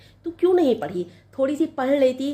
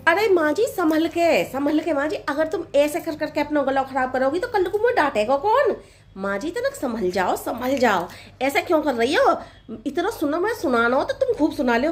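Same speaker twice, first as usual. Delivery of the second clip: high, sugary daughter-in-law voice; sweet young bride; 4 semitones higher than usual. Acted. Bride soothing her coughing mother-in-law, high and sugary. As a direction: sing it up sweetly, a little cheeky.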